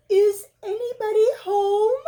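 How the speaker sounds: high, loud call into the hole. Acted. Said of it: "called Pooh".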